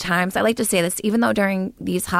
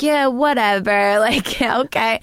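slow, drawn-out yeah whatever, brushing it off; dismissive kids; 2 semitones higher, slower than usual. Retold or imitated. Kids brushing off mom's soap threat, dismissive. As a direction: shrug it off like she's no threat. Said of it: "And we were like".

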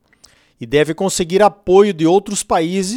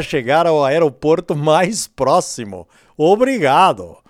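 airport announcement; 4 semitones lower than usual. Retold or imitated. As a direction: play the captain on the intercom, calm and low. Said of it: "quer ouvir o comandante falando".

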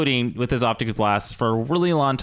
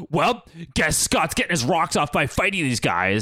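lightly voiced character quote, pitched up; Logan; 5 semitones higher than usual. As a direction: act out a wry remark in another voice. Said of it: "Logan has this line here".

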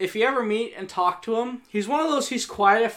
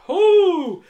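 sharp high yelp of fright; startled yelp; 10 semitones higher, 9 dB louder than usual. Retold or imitated. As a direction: jump back with a yelp. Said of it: "I was like".

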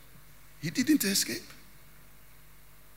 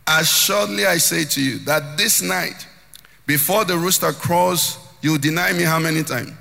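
loud emphatic Jesus; 7 dB louder than usual. Acted.

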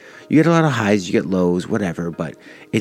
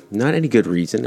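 rising at the end like a question; 4 semitones higher than usual. Real, not acted. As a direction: uptalk it, ending higher. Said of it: "I don't mean to uptalk like a valley girl".

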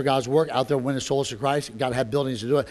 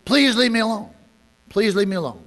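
imitating a polite, pleasant refusal; 4 semitones higher than usual. Unseen lady politely turning away a door-knocker, pleasant. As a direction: ask sweetly to be left alone. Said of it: "all very pleasant".

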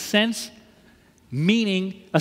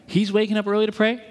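raised, rising setup line; observing a model; 2 semitones higher than usual. Retold or imitated. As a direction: lift it like noting what someone else does. Contrasts friend with his copying.

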